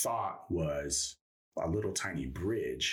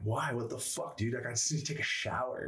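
incredulous protest; 6 semitones higher than usual. Retold or imitated. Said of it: "I'm like".

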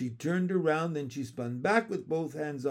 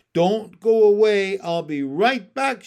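loud, raised call that eases toward the end; 6 semitones higher, 13 dB louder than usual. A narrator's reading. Woman running off to the palace, calling back. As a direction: call back over your shoulder as you go. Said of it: "she called".

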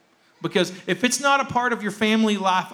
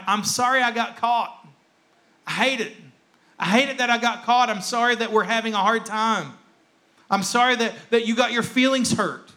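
higher-pitched self-pitying non-apology; mock remorse; 5 semitones higher than usual. Preacher acting out being sorry he got caught, mock remorseful. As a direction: imitate someone sorry only for themselves.

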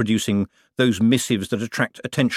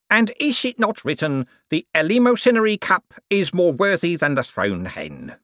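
pious reverend; 8 semitones higher than usual. A narrator's reading.

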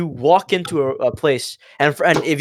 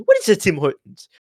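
imitated Indian-sounding accent of an official; 3 semitones higher than usual. Embassy man puzzled by the students' answer, imitated Indian-sounding accent. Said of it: "there's an Indian guy telling them to leave".

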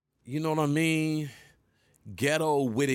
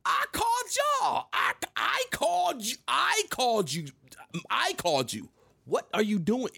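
disbelieving shout; 12 semitones higher than usual. Retold or imitated. Man to the cops, high disbelieving shout. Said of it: "I said".

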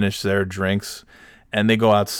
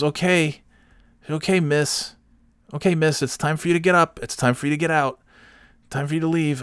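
imitated bartender, pitched up; bossy bartender; 7 semitones higher than usual. Bartender telling a resting customer to leave, bossy. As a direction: order them out in a higher put-on voice.

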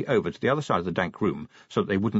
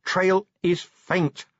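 slow, higher, strained words; through gritted teeth; 8 semitones higher, much slower than usual. A narrator's reading. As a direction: force each word out slowly. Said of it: "through gritted teeth".

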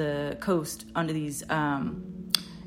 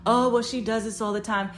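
higher, louder careless brush-off; mocking dismissal; 5 semitones higher, 4 dB louder than usual. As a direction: imitate a man shrugging her off. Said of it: "he starts to mock her".

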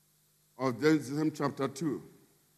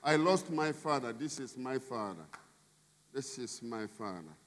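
proud introduction; 4 semitones lower, 7 dB quieter than usual. Retold or imitated. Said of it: "Was telling everybody".

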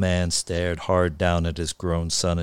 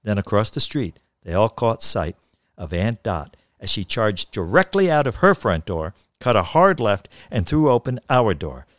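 story narration. A narrator's reading. Reads a story aloud.

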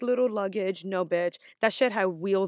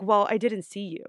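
mild imitated attitude; 4 dB louder than usual. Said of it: "she got an attitude".

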